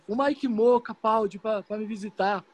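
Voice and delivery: slow, weak, halting words; faltering voice. Retold or imitated. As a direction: speak like a hurt patient. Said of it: "Ele falou desse jeito".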